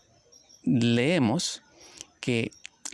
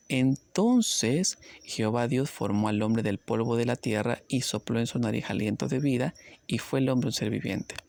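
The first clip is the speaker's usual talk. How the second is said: scripture reading. Acted. Rereads Genesis aloud.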